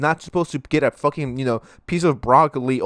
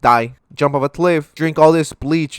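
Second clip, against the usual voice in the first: mock yelling protester; 6 dB louder than usual. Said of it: "not tell them".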